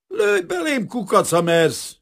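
put-on young man snarls at the detective's revolver; snarling dare. A narrator's reading. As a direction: spit the dare at him, slowly at the end. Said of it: "Vicsorgott rá Kazimír".

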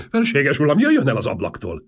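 loud high call across the room; shouted from afar. Acted. Prime minister warns the king from afar, shouting. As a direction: shout a warning from a distance. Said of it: "kiáltotta már messziről a miniszterelnök".

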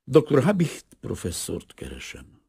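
a hint of a hoarse foreign visitor; polite stranger asking, voice slightly altered; modest, slightly hoarse foreigner. A narrator's reading. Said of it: "kissé rekedtes, idegenes kiejtéssel".

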